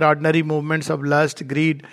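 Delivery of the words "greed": normal talking voice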